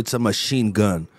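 low, slow, dead-serious answer; deadpan serious. Retold or imitated. Actor father answering the airport guard, deadpan serious. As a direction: say it straight-faced as if true. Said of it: "Respondeu sério".

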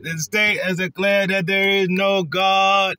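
slow mock official shout; slow declaration. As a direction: announce it slowly like a decree. Acted film quote, shouted, slow.

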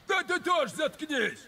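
squabbling. Acted. Crew quarrelling, telling each other shut up.

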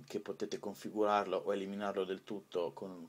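ordinary talk, nothing marked

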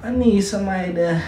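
whiny plea. Pretend. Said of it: "Can you stop talking like that?".

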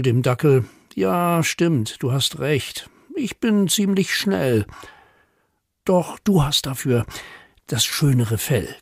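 lively, measured poem reading; poem for children. A narrator's reading. Poet reads rabbit and dachshund letters to children, playful recital. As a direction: read the verse playfully, letting quotes lift.

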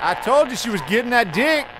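gleeful gloat. Real, not acted. Gamer gloating over the diary reveal, triumphant. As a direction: crow that you were right all along.

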